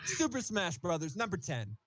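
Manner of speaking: laughing through a slow announcement. Real, not acted. Announces the pick while laughing.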